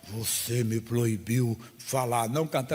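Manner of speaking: slow, mocking demon voice, lightly distorted. Pastor retelling the demon mocking him, in a slow distorted voice. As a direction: drag the words out like a taunting demon. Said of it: "já com a voz distorcida falou assim".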